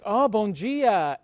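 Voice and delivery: drawn-out, lilting playful hello; friendly greeting back. Retold or imitated. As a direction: imitate a cheerful greeting, stretched out slowly. Woman replies to joke greeting.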